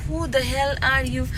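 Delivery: drawn-out filmy line, leaning on the; slow it down like a movie hero; slow dramatic quote. Retold or imitated. Imitating the song line for viewers, slow and dramatic. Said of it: "ऐसे type का ना".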